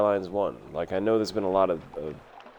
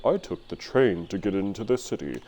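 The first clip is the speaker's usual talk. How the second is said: fancy urbanite. Retold or imitated. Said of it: "Or you're like some fancy urbanite".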